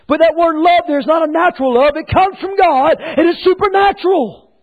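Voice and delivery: high, emphatic pulpit voice; forceful preaching. Acted. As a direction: preach it with rising conviction.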